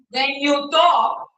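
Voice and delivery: slow, measured teacher pace; slow deliberate delivery. Shown as a demonstration. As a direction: show them how to talk slowly. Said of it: "I want you to talk like this".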